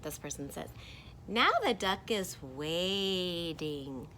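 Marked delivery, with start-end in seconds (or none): 1.2-4.1 slow, stretched reading; drawn-out character line. Acted. First character telling what the duck does, drawn out. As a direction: draw the words out slowly.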